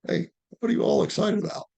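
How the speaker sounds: playful high to dog. Pretend. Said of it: "walk up to it and go".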